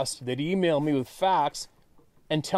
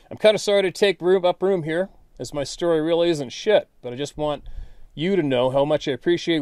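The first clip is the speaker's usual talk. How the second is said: louder, lightly performed letter read to open; reading a fan's letter out to the viewers, a touch louder; email read aloud; 3 dB louder than usual. Acted. Host reads Bob's letter to his viewers, lively read.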